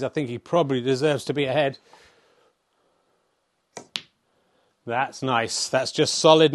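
hushed TV snooker commentator; snooker commentary. Acted. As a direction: call each shot like broadcast snooker.

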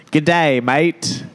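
put-on a light, playful Aussie accent; attempted Australian accent. Host having a go at Aussie greetings, mock Australian accent. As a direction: try an unconvincing Australian greeting. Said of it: "Can you do an Australian accent?".

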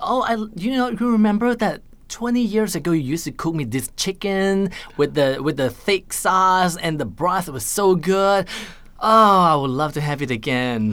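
butter up mom with a slow sweet plea; flattering mother. Retold or imitated.

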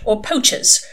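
irritated and emphatic; snapped. A narrator's reading. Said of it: "she snapped".

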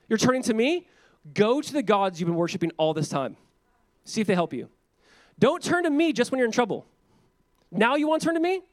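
scolding a fickle people, pitch climbing; sarcastic rebuke. Retold or imitated. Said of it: "God is saying this".

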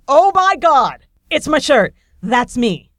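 high, loud, slow burst of disbelief; excited shriek. Retold or imitated. Woman spots her own shirt on the monitor, thrilled shriek. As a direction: shriek it like you just won.

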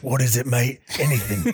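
lightly voiced British action hero; earnest mock movie hero to a dying comrade; Jason Statham.

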